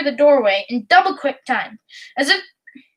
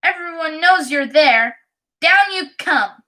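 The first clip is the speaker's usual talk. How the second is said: spiteful voice; 3 semitones higher than usual. Acted. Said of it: "a mean, spiteful little voice".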